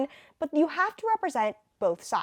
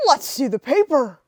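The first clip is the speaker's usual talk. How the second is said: 1930s voice; 3 semitones higher, 8 dB louder than usual. Acted. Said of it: "nineteen thirties voices".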